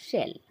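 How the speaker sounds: शेल said as shell with a curled-tongue sh; curled sh sound. Shown as a demonstration. Teacher demonstrating the curled sh in शेल for students. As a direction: start शेल on a clear sh. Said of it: "इसमें हम जीभ को थोड़ा सा मोड़ेंगे".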